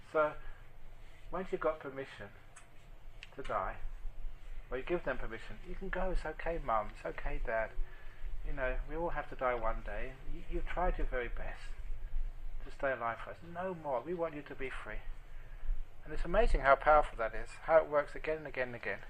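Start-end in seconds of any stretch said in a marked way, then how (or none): 6.1-15.0 soft, tender reassurance to a dying parent; gentle reassurance. Acted. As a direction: quietly comfort them and let them go. Child releasing dying parents.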